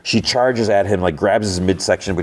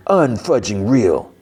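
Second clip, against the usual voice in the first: mad retort; 3 semitones higher, slower than usual. Retold or imitated. She hears he is concerned about her, mildly acted anger. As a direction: act out her indignation, stretching the words. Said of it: "then she gets mad".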